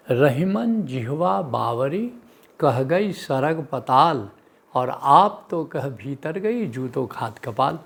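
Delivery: slow, measured verse recital; couplet recitation. Acted. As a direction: recite the old couplet slowly, drawing out each phrase. (धीमे, लय में दोहा पाठ)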